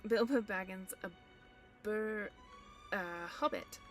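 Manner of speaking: frightened stammer. A narrator's reading. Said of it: "said poor Bilbo, shaking all over".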